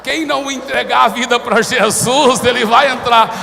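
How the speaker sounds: loud laughing punchline; preacher cracking up at the crowd's reaction. Real, not acted. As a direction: laugh through the joke.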